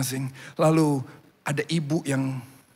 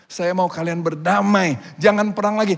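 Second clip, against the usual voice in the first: raised, emphatic appeal for peace; insistent plea; 6 semitones higher, 3 dB louder than usual. Acted. Missionary to warring villages, insistent raised plea. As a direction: plead firmly over the fighting.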